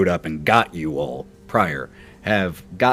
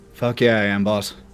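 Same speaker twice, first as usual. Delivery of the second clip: timid, put-on big-boy voice. As Pedro, a Marine answering his boss, Pedro's put-on big-boy voice. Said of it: "kind of putting on that big boy voice".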